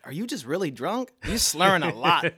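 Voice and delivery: laughing through the quote; giggling while quoting friends. Retold or imitated. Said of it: "They're like".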